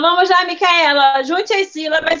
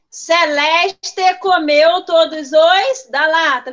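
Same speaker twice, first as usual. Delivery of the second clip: slow read-aloud; slower than usual. Shown as a demonstration. Teacher reads the item aloud.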